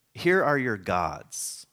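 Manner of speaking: "Here are your gods." read out very slowly. Shown as a demonstration. Preacher reading the English translation, slowly. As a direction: lay each word down like a verse. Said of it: "the story will say".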